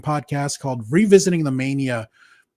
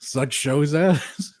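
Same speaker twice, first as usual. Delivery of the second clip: slow, smooth, over-the-top announcer voice; Troy McClure voice; much slower than usual. Retold or imitated. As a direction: slick TV spokesman, drawn out slowly. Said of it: "you sound like a".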